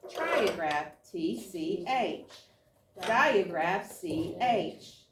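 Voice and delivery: brisk call of each pattern name, then its letters; flashcard drill. Acted. Teacher running spelling cards with the students, brisk drill call. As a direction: rattle through the cards for the class.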